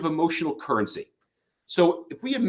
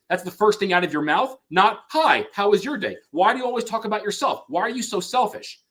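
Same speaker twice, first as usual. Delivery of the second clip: wife attacks husband's bid, hammed-up anger; aggressive reply; 6 semitones higher than usual. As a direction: snap back at a selfish husband, half acted. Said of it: "a bid is met with aggression".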